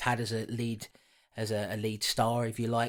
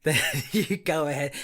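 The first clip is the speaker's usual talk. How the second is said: higher and louder, laughing mock give-up; mock exasperation; 6 semitones higher, 7 dB louder than usual. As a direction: throw up your hands at him, laughing. Teasing co-host about deep reading.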